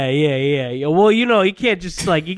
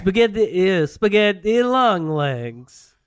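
Italian runner voice; 3 semitones higher, slower than usual. Acted. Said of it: "You play that one Italian runner".

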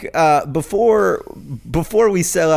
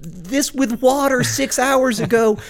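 self-scolding; 14 semitones higher than usual. Retold or imitated. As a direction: yell at yourself for forgetting, half laughing. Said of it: "and I'm like".

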